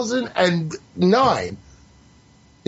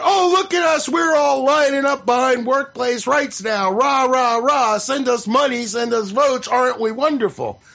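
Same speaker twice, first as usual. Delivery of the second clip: mock self-congratulation; 2 semitones higher than usual. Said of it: "that's what".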